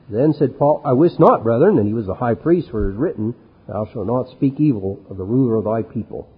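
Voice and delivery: measured reading of the Bible text; solemn Bible reading; scripture reading. Acted. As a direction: read the verses with weight. Reads scripture passage aloud.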